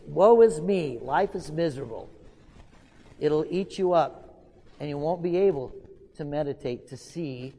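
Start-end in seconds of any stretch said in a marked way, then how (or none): 0.0-2.1 mock self-pity. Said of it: "Self-grievances".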